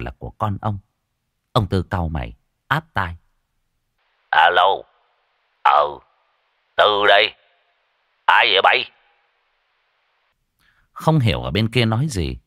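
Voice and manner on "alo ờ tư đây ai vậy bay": slightly raised phone voice; answering the phone. Acted. Old man picking up an unknown call, slightly loud. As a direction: answer the call a little loudly.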